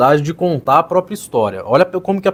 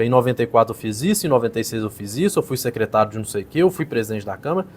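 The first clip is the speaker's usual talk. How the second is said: lower, softer, rattling off dates; dry résumé listing; 5 semitones lower, 5 dB quieter, faster than usual. Shown as a demonstration. Coach mocking the candidate's technical story, flat and dry. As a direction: list it like a boring CV. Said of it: "a história dele foi muito analítica, muito técnica".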